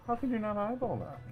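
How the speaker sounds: mock arrogant. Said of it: "the arrogance in his voice".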